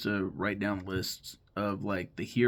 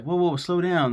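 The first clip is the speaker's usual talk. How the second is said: higher, louder mock call to hold on; acted interruption; 7 semitones higher, 6 dB louder than usual. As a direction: cut in to halt a rambling friend. Friends halt Finn's rambling in retelling.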